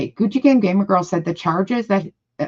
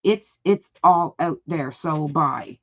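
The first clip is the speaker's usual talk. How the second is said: mock angry reading. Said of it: "She is so fucking angry".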